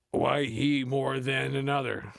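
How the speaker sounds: lightly voiced comedian taking the line; Cedric the Entertainer. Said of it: "said Cedric the Entertainer".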